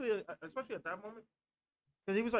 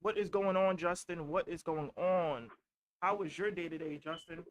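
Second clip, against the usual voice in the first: hype host greeting; slower than usual. Real, not acted. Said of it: "more energy".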